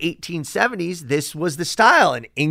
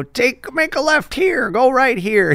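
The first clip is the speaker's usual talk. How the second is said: imitating Google Maps; 8 semitones higher than usual. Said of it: "listening to my Google Maps".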